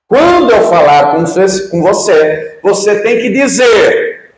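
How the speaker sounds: mimicking a judge yelling in court. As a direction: bark the order like an irate judge. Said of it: "aos berros".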